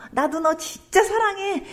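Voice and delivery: high, drawn-out delighted declaration; delighted reply. Acted. The Lord answering a confession of love, delighted. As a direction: stretch it out with joy. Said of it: "주님이 너무너무 기분 좋아하시면서요".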